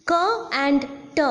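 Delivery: "K" and "t" said as sounds, not letter names; isolated consonant sounds. Shown as a demonstration. Lecturer naming the two consonant sounds, "K" and "t" sounded out singly. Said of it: "they are the two consonant sounds".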